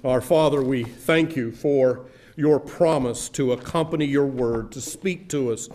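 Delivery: earnest, reverent prayer voice; public prayer. Acted. Pastor leading the church in closing prayer, reverent. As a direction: pray aloud for the congregation, reverently.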